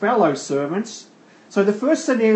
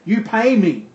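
higher-pitched, mock stern demand; raised pitch, insistent and mildly angry; demanding creditor; 5 semitones higher, 4 dB louder than usual. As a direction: act out a creditor insisting on payment. Acting the unforgiving creditor.

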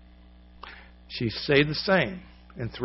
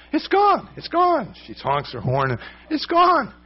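very high, louder joyful cry of it's gone; joyful calling out; 13 semitones higher, 3 dB louder than usual. Retold or imitated. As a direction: shout it out the car window with joy. Woman calling out from car.

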